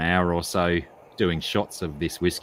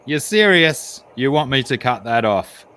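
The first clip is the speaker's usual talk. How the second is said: incredulous barman; 6 semitones higher, 6 dB louder than usual. Acted. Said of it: "the barman says".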